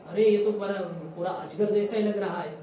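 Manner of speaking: lightly voiced awestruck cowherd boy; amazed exclamation. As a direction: call out the discovery as an astonished child. Cowherd boys exclaim at python.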